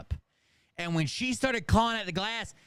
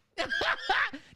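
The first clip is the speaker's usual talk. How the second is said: high wheezing laugh breaking through; cracking up at own story; burst of laughter; 13 semitones higher than usual. Real, not acted. Comic retelling a movie scene, bursting out laughing.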